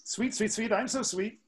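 high sing-song birdsong mnemonic; lightly sung bird call; yellow warbler song. Retold or imitated. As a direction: chirp it high like a little bird. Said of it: "The, uh, yellow warbler".

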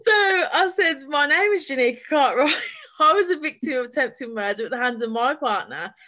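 fighting back tears as she says it; voice breaking. Real, not acted. Telling how she named herself to the commissioner, voice breaking. Recounting introducing herself, emotional.

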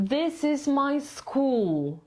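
"school" falls at the end, slow; falling on school. Shown as a demonstration. Teacher marking where intonation falls, pitch drops on school. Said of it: "intonacja idzie w dół".

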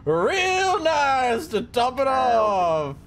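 folksy manager voice. Pretend. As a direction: tell it like a chatty old-timer. Reads game manager dialogue.

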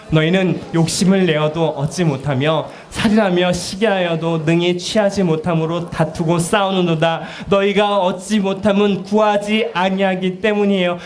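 slow, measured Bible reading; scripture reading. Acted. Preacher reading James to the congregation, slow. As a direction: read the verse out slowly.

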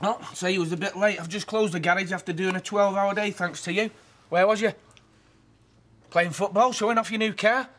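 loud, furious scolding; angry telling-off. Acted. Brother tears into Tony for being late, angry shout. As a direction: lay into him, fed up and shouting.

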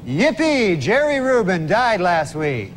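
bright happy yippee read; gleeful newsreader yippee; cheery yippee. Shown as a demonstration. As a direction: cheer the first word like good news. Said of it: "the joke on a Weekend Update was".

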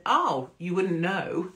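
slow, offhand little put-down; accidentally rude. Retold or imitated. To the pub lady, an unintended rude remark. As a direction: slip out a careless snub. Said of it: "it sounded really rude".

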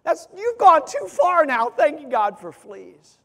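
Corrie balks at thanking God, rising in outrage; indignant refusal. Retold or imitated. Sister refuses to give thanks, growing loud and indignant. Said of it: "And Corey was like".

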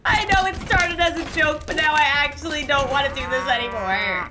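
a touch of crying under the words; teary regret. Real, not acted. To the viewers about the cow, teary regret. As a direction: sound close to tears.

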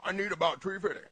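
low, soft monster mumble; a sly monster asking quietly; lightly voiced low monster. Monster asks for money.

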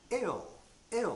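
"L" held with the tongue on the ridge; "L" said as a clear lateral, no vowel; L sound demo. Shown as a demonstration. Teacher isolating the final L of drill. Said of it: "ここだけ言うと".

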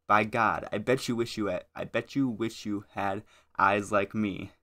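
theatrical poem recitation with punched openings; a little dramatic. Acted. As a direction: savour the verse, stretching key phrases slowly. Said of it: "I get a little dramatic whenever I say that one".

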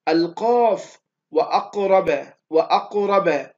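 "وأقرب" slow and loud, the "ق" thick and full; heavy QAF. Shown as a demonstration. Teacher gives students an example, "وأقرب" slow with heavy "ق". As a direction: announce "القاف" firmly, then stretch "وأقرب" on a heavy "ق". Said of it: "هذه سبعة أحرف حروف التفخيم".

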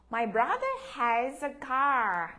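slow and clear "My brother has a car"; slow model reading. Shown as a demonstration. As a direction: say it slowly so the class can echo. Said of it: "Các em đọc theo cô".

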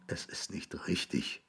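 hushed, breath-only whisper. A narrator's reading. William whispering to the grass between his knees. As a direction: whisper it to yourself, defeated. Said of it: "flüsterte er zu dem Gras".

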